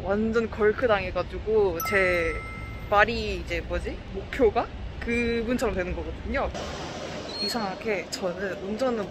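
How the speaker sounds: muffled behind mask; speaking into cloth mask; through a face mask. Real, not acted. Seen 1: Surgical mask covers mouth and nose throughout; absent in R1-R4.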